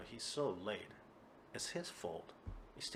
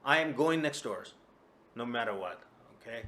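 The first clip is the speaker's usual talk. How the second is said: put-on drunken insistence; 2 semitones higher, 8 dB louder than usual. Kuma insists on complaining.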